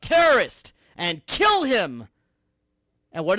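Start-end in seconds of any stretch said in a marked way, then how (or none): 0.0-0.7 loud, high heckler's yell; angry crowd shout. Acted. Radio host mimicking angry rally crowd, shouted accusation. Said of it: "they're shouting out". 1.2-2.1 loud, raised mob yell; angry crowd shout. Acted. Radio host mimicking angry rally crowd, shouting out. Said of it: "they're shouting out".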